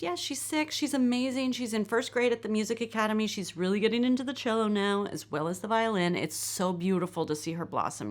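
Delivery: high-pitched gush, settling as it goes; effusive mom brag, pitch starting way up; gushing proud parent. Acted. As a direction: boast sweetly about your child, starting high. Gushing parent read from script.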